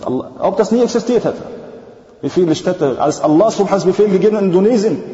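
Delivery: awed, insistent preacher; impassioned preaching. Real, not acted. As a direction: preach it with rising urgency. Preaches with raised voice.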